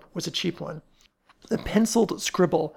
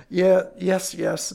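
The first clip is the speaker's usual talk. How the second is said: impatient; 2 semitones higher, 4 dB louder, slower than usual. Acted. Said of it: "said Ellery impatiently".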